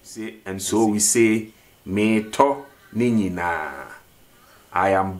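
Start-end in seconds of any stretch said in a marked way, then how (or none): 1.8-3.9 "me to ni nyinaa" with no R sound; R dropped. Shown as a demonstration. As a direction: say "me to ni nyinaa" as in spoken Twi, R left out. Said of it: "R is somehow eliminated".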